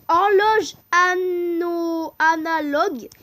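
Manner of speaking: loud, slowed, whiny fake crying; mock wail. Vlogger reading the next question in loud mock crying. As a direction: wail the words.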